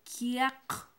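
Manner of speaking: Kiak as ki then a crisp ak, loud; Mam word, clearly modelled. Shown as a demonstration. Teacher models the Mam word for red, loud and clear. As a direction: model Kiak for students to echo. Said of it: "Pronunciemos bien, por favor".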